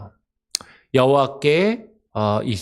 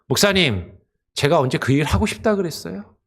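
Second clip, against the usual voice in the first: higher, put-upon grumbling; complaining churchgoer; 4 semitones higher than usual. Retold or imitated. Church member grumbling to the pastor, higher aggrieved whine. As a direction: air a string of grievances to the pastor. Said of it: "그렇게 따지고 불평하는 것과 같다".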